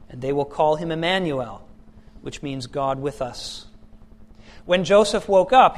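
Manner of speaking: measured, projected reading of the Gospel; formal lectern reading, phrase by phrase with clear pauses; scripture reading. Acted. Preacher reads the lesson to the congregation, solemn scripture reading.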